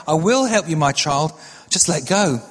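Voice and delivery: a hint of God's voice, steady and measured; lightly voiced God. God answering the man hanging from the cliff, lightly voiced divine reply. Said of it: "the voice came back".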